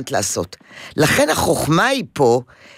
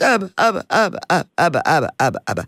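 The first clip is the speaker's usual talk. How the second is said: mock crying child. Therapist imitating toddler calling for dad, mild mock wail. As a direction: call out for daddy, dying away. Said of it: "והוא ממשיך לבכות".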